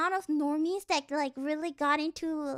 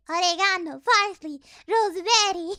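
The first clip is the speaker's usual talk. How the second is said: louder, punchy list of herbs; loud joke list; 7 dB louder than usual. Real, not acted. Streamer riffing on a word with chat, loud and playful.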